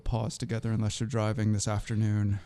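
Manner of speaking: booming circus ringmaster announcement. Acted. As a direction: announce them like a big top show. Host's big circus-style introduction.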